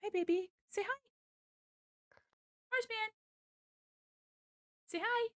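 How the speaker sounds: high, soft cooing; pet talk to cat. Real, not acted. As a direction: coax your kitty to speak. Prompting the cat to say hi.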